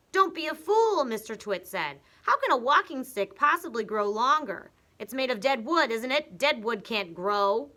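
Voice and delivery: high, loud sneering husband, slowing at the end; husband mocking his wife; scornful Mr Twit. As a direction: talk down to her like a fool. Mr Twit scolding.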